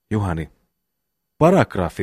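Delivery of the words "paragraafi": shouting. Acted. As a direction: call it out like a demand. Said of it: "huudan minä huikeasti".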